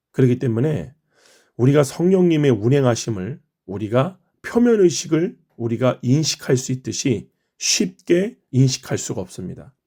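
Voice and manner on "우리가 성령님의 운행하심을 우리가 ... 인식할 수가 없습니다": usual speaking voice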